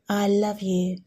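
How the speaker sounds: soft, tender declaration to the Lord; a gentle, unhurried prayer of love; slow tender affection. Shown as a demonstration. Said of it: "I suggest you to say it slowly".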